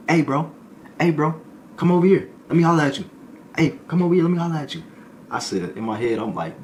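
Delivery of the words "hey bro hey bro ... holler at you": high, loud call across the room; hollering at the new guy to come over. Retold or imitated. Inmate calls the new guy over, loud high call.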